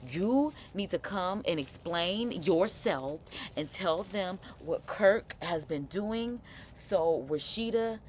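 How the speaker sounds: slow, emphatic acted demand; imitating a meddling friend's insistent instruction; Carly. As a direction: spell it out slowly, word by word. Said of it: "I can also see Carly telling her".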